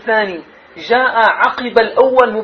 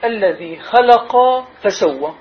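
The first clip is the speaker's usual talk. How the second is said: slow reading; slower than usual. Shown as a demonstration. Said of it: "لاحظوا".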